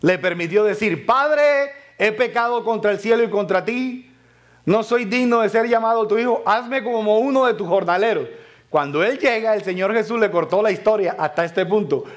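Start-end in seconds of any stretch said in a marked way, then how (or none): 1.1-8.3 hijo pródigo rogando, más agudo y fuerte; pleading son. Acted. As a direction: suplica al padre con voz alzada. Voz del hijo pródigo suplicando. (hijo arrepentido que clama a su padre, voz aguda)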